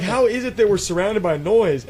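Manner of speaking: baffled and thrilled at the sounds; astonished exclamation; amazed question. Retold or imitated. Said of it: "I'm like".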